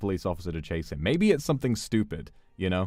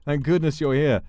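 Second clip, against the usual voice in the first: panicked George; 6 semitones higher, 4 dB louder than usual. Acted. George pleads with officer.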